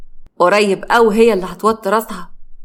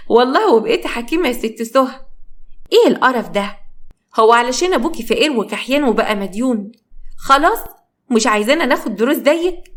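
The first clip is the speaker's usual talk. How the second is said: scornful mocking; 3 semitones higher than usual. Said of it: "بصت لها بقرف".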